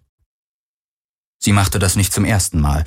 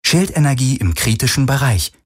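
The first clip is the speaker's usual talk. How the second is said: ship's computer alert; 4 semitones higher than usual. A narrator's reading. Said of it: "meldete das Schiff".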